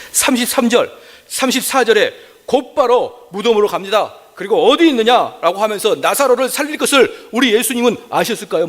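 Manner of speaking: high-pitched, driving sermon delivery; impassioned preaching. Real, not acted. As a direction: preach it at full pitch, phrase by phrase. Preaching at full force. (높은 목소리로 열띤 설교)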